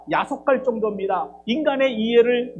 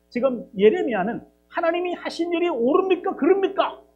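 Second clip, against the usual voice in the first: higher, louder pleading challenge; indignant protest; 7 semitones higher, 4 dB louder than usual. Acted. Jeremiah challenges God over right and wrong, higher indignant protest. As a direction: demand an answer from God, rising hard. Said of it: "라고 따졌는데".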